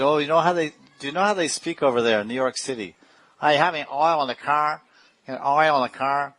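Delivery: a hint of a New York accent, teasing; mock New York accent. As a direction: imitate a New Yorker asking about oil. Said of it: "they have a particular accent".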